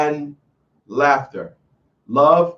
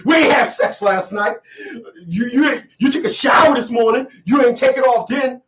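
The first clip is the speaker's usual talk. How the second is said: higher-pitched, mock-upset accusation; mock indignation; 5 semitones higher than usual. Woman confronting her man the morning after, mock indignant. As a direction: act out a wronged partner protesting. Acted quarrel over condom.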